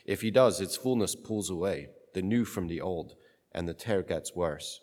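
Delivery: solemn Gospel reading; cathedral echo. Acted. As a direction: read it like a liturgy.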